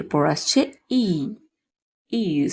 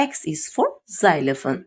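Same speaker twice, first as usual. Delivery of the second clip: slow drill; 3 semitones lower, much slower than usual. Shown as a demonstration. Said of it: "slow teaching drill".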